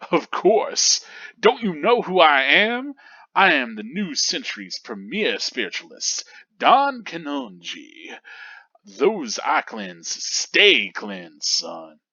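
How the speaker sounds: lightly voiced boastful medium; boastful showman. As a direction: brag like a showman celebrity. Boastful spiritualist character.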